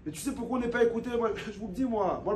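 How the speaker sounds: ordinary delivery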